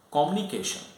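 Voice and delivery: "communication" with the "-mu-" squashed, like "commni-cation"; "communication" mispronounced as "comm-nication"; incorrect pronunciation. Shown as a demonstration. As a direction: say "communication" wrongly, dropping the "you" sound after the m. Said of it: "which is incorrect".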